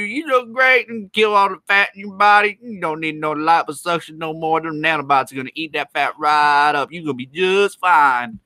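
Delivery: high, bright sales pitch voice, hammed-up; mock pushy salesman. Streamer mocks a salesman pushing nanobot injections, hammed-up and high. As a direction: sell it like a sleazy infomercial doctor.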